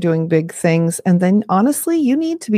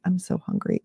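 put-on whimpering child; 9 dB quieter than usual. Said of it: "they say".

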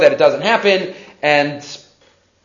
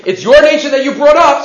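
higher-pitched, pointed sarcasm; a little sarcastic; 7 semitones higher, 4 dB louder than usual. Acted. Hashem handing Moshe the blame for the nation, a little sarcastic. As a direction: lay mild sarcasm on the blame. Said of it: "was being a little sarcastic".

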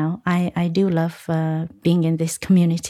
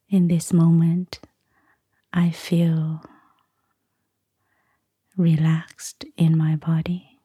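guided meditation. Acted. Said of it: "give us a short guided meditation".

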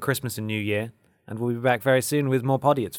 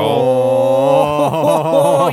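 loud laugh; 12 dB louder than usual. Real, not acted. Big laugh at name clash.

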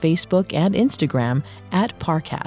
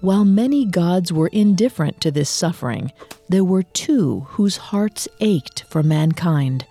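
story narration. A narrator's reading. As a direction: narrate like an ancient legend. Dramatic myth narration opening.

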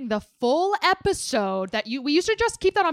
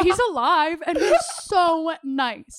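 laughing; 4 semitones higher, slower than usual. Real, not acted. Laughing, mock cry.

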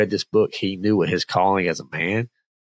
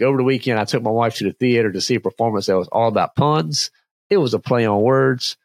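quicker retelling of the joke; telling a dad joke; 2 semitones higher than usual. Acted. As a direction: run the joke again briskly. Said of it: "we'll see which one lands".

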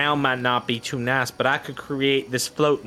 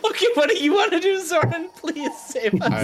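high, fast twangy swamp hermit; an eager backwoods host pleading; folksy Pickthorn voice. Acted.

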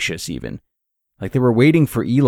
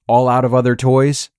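sneering; 4 semitones higher, 3 dB louder than usual. A narrator's reading. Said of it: "Eli sneered".

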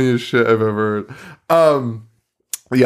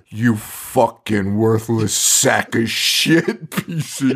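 mock insult; 4 semitones lower, much slower than usual. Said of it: "every single character at some point is like".

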